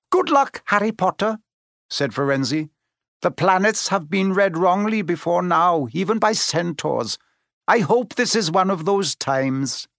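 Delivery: parting words of a centaur; solemn centaur farewell. A narrator's reading. Firenze farewell.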